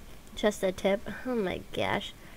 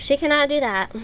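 mock echo; 6 semitones higher, 5 dB louder than usual. Real, not acted. Echoing the game voice.

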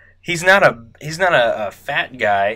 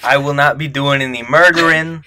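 louder, half-laughing mob voice; shifting gangster voice; 3 semitones higher, 3 dB louder than usual. Acted. Georgie denying murder plans, voice slipping, laughing. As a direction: lose the voice while insisting. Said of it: "He's changing".

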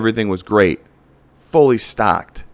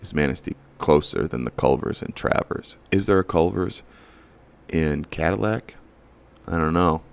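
puzzled driver; 3 semitones lower, 4 dB quieter than usual. Retold or imitated. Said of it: "they're gonna flip a coin and say".

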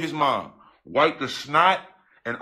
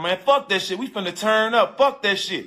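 imitating friend; 4 semitones higher than usual. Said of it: "I hear Steph in the background talking".

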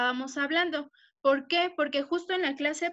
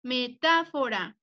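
"metáfora" with TA raised, then falling away; stress on TA; 3 semitones lower than usual. Shown as a demonstration. Teacher showing pupils where the accent goes, stress on TA. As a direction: lean on the TA in "metáfora". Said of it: "Lleva acento en la sílaba ta".

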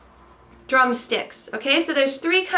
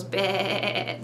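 lamb bleat imitation; 3 semitones lower, 5 dB quieter than usual. Shown as a demonstration. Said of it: "lamb is one goes".

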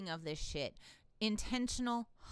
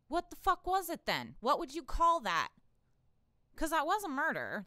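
much higher and louder, incredulous; outraged disbelief; 7 semitones higher, 6 dB louder than usual. Real, not acted. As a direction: demand it, fuming. Outraged at the verdict.

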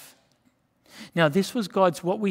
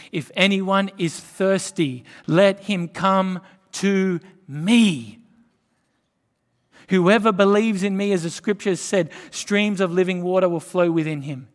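louder, slowed call of Jesus to the thirsty; 2 semitones higher, 6 dB louder than usual. Acted. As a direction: cry out the invitation to the crowd. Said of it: "said in a loud voice".

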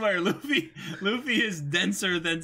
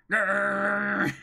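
growl; 4 dB louder than usual. Acted. Captive growling in the cage.

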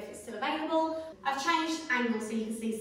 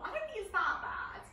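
whispering; 2 semitones higher, 5 dB quieter than usual. Real, not acted. Aside about small TV.

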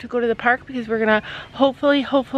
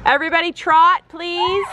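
brisk projected riding commands; 4 semitones higher than usual. Pretend. Judge calls command.

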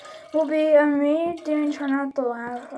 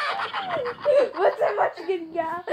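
laughing; 6 semitones higher, slower than usual. Real, not acted. Laughing at the clip.

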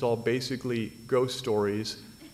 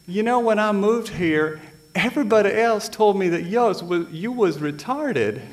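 put-on high, louder Southern girl accent; 8 semitones higher, 5 dB louder than usual. Glenda telling him what kids said, in a high Southern accent. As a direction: innocent Southern twang, pitched high and loud. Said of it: "she had a southern accent".

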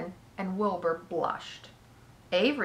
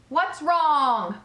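higher-pitched, mildly alarmed announcer; alarmed question; 7 semitones higher, 5 dB louder than usual. A narrator's reading. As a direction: call out in concern over the loudspeaker. Loudspeaker asks about collapsed pig.

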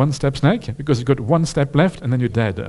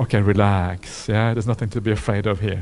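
calm soothing; 4 semitones lower than usual. Pretend. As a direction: settle a frightened creature gently. Cobra soothed by metta.

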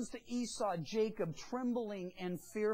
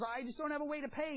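quick, higher-pitched mock plea; pleading; 6 semitones higher, faster than usual. Debtor to the servant demanding his money, pleading. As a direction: play a debtor helplessly making excuses. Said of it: "He falls at his knees".

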